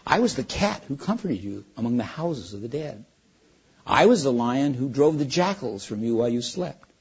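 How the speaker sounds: a hint of a vast, gentle lion; calm great voice. Aslan tells Shasta's past.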